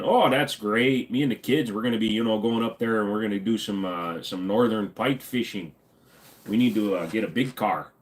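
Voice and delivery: lightly voiced Midwestern car buyer; Midwestern customer. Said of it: "deal with people like this".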